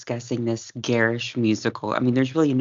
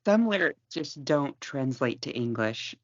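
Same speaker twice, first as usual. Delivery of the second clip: slow, deadpan quip; 3 dB quieter than usual. Shown as a demonstration. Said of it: "I think they just don't translate to English".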